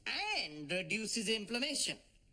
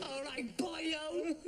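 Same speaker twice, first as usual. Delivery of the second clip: put-on Welsh accent; 6 semitones higher, slower than usual. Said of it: "pretended to be Cardiff City supporters".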